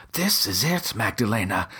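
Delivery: high breathless excited gasp. Acted. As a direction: gasp it out with sudden elation. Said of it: "I gasped".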